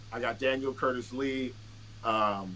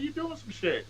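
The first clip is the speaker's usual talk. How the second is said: high mock voice; 14 semitones higher, 3 dB quieter than usual. Quoting himself to a friend.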